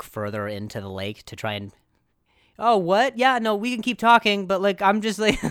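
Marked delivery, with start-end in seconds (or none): 2.6-5.4 high nervous chatter; flustered, high-pitched small talk. Retold or imitated. Awkward small talk in deep water.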